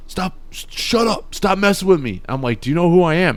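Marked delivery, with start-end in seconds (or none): 0.1-2.2 high, whiny voice of a groggy friend; imitating dazed friend. Dazed friend waking up, telling him to stop, in a high mock whine. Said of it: "And you're like". 2.6-3.4 loud urgent question. Retold or imitated. Testing dazed friend again.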